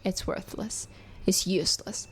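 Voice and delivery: unvoiced hopeless whisper; whispered despair. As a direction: breathe the words out, voice gone, defeated. Mother voicing self-blaming thoughts.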